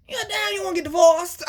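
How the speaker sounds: high, loud laughing outburst; laughing cry. Real, not acted. Laughing at her own divorce joke to the viewers. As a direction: crack up mid-line.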